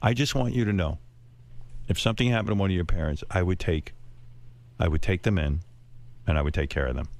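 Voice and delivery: low, gentle retold sweetness; loving. Wife confiding in bed about his parents, loving. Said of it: "most loving, sweet thing".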